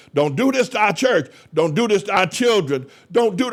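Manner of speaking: put-on, earnest, begging, imploring tone. Retelling pleading with the judge over selling the church: retelling own pleading. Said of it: "I pleaded with Mister Judge".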